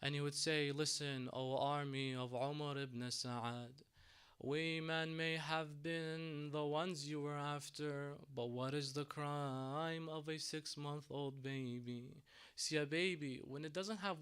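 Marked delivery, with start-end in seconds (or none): 0.7-12.2 slow solemn plea. Retold or imitated. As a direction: beg for the baby's life, slowly. Imam Hussein pleading to the army.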